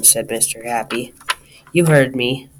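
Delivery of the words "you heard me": snapping. Acted.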